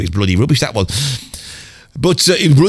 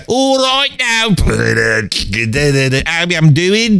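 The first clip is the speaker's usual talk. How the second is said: mock rock singer intro; slower than usual. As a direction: stretch "All right now" like the rock singer. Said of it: "he was gonna be like that".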